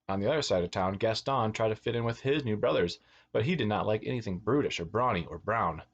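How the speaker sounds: put-on lilting read-aloud for children; animated storyteller; picture-book narration. A narrator's reading. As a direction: read a storybook to little kids, stressing key words.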